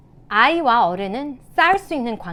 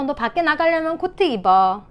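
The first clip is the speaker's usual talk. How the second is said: higher but even instruction; matter-of-fact parent; 5 semitones higher, 3 dB louder than usual. Shown as a demonstration. Adult guiding a child going out, matter-of-fact demonstration. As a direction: state the wanted behavior simply. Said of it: "이런 식으로 어른으로서".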